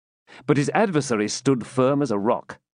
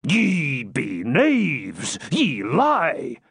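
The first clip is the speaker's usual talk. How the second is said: offended retort; 2 semitones higher, much slower than usual. A narrator's reading. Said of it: "retorted the offended friar".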